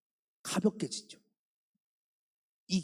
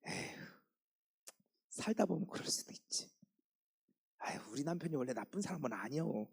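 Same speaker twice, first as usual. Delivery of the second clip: 1 soft forgiving sigh; 5 dB quieter than usual. Pretend. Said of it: "며칠 지나면".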